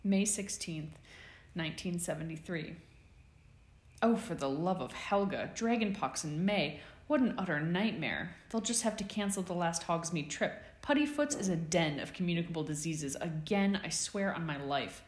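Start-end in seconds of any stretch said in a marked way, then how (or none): 4.0-15.0 exasperated, harried healer complaining; fretting matron. Acted. Madame Pomfrey complaining to herself about the sick students, exasperated.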